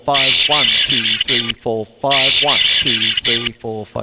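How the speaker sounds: loud squawking duck count in five four; Donald Duck yelling counts. Retold or imitated. Donald yelling five four counts at Huey, Dewey and Louie in a loud duck squawk. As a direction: yell the count like an angry cartoon duck. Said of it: "there's Donald yelling at Huey".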